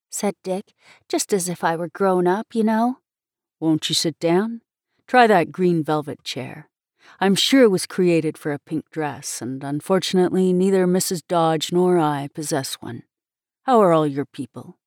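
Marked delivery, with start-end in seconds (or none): 3.6-14.8 slightly lowered, measured man's voice; a hint of a kindly minister receiving a guest; lightly voiced courteous minister. Dick welcoming the girl into his study, politely.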